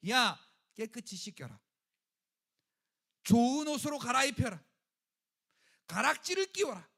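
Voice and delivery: loud orders to servants; father ordering servants to dress his son; commanding father. Acted. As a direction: call out commands joyfully. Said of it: "종들에게".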